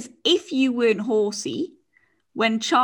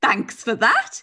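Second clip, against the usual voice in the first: deadpan sarcasm; much slower than usual. Retold or imitated. Guy's dry reply to the boy.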